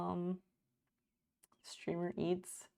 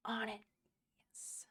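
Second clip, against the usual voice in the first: whisper; 3 semitones higher, 8 dB quieter than usual. Real, not acted. Whispering back to chat.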